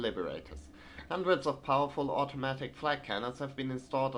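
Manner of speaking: formal propaganda bulletin reading; newspaper read-aloud. Acted. Gamer reading occupation news from Shanghai, formal bulletin read. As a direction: read it out like an official announcement.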